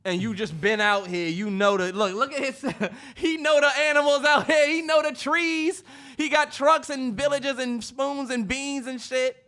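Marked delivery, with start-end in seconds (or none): 3.1-9.4 high, laughing mock praise. Real, not acted. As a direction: tease through laughter. Laughing mock about friend.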